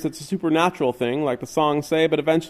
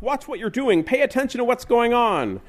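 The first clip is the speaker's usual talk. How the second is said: much higher, scolding tone; scolding cook; 10 semitones higher than usual. Acted. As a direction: scold him from behind the counter. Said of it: "cried the cook".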